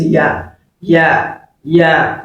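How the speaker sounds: "ya" as y gliding into long open a; teacher's plain model of "ya"; ya pronunciation. Shown as a demonstration. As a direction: say each "ya" separately, drawing out the vowel. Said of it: "That is how to pronounce".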